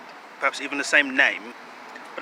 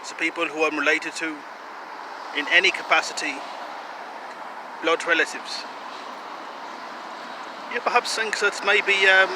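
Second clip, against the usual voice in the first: mock German accent, earnest self-promotion; wobbly, hammed-up German accent. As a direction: put on a slightly Eastern European German accent. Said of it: "I'm having a little trouble with this accent".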